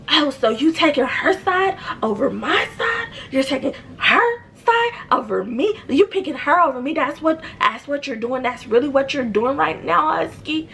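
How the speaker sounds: high, mock-offended whine; indignant whine. Sister-in-law whines at her brother, indignant high voice. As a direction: play her up as the wronged sister, pitched high. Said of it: "she's so".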